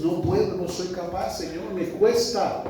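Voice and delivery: confessing plea. Acted. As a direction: cry out to God that it is too hard. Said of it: "Es ese reconocimiento de nuestra condición". (súplica a Dios, en tono más agudo)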